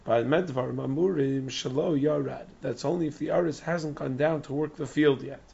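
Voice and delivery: hoarse, strained lost voice; straining through a lost, hoarse voice. Real, not acted. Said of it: "I lost my voice".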